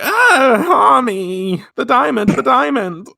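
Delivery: high, loud panicky cry; panicked Minako. Retold or imitated. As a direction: shriek about the broken diamond. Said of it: "Minako's like".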